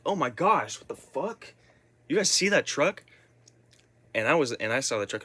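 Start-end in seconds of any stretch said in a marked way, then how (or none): 0.0-3.0 shocked cousins. Retold or imitated. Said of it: "they were like".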